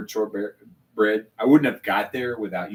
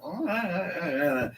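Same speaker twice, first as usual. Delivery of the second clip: mock disgusted groans; 6 semitones higher, 5 dB quieter than usual. Mimics a drinker who hates malt.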